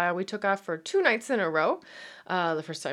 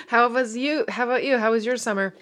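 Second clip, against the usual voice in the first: laughing question; 4 semitones higher, 7 dB louder than usual. Real, not acted.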